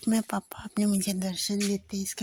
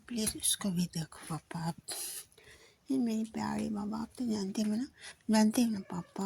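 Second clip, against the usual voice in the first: whispered prayer; 5 dB quieter than usual. Real, not acted. Whispered prayer to Guru Papa.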